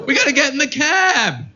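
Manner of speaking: lightly high mock parent. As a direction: say it like a fussy parent.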